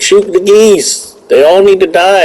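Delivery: hammed-up trigger-happy mania; crazed hunter. Going hog wild shooting.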